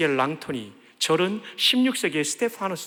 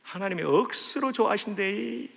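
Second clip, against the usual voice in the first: light Gyeongsang dialect; a hint of a Gyeongsang accent; 3 semitones higher than usual. Preacher joking how Gyeongsang people would say it, mild Gyeongsang accent. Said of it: "경상도 말로 하면".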